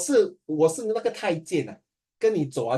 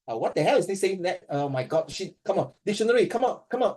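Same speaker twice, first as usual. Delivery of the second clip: hammed-up flustered student groping for words; imitating a student who freezes in a test; mock panic; 3 semitones higher, slower than usual. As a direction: act lost and frantic, slowing on the hard words. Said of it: "you freak out already".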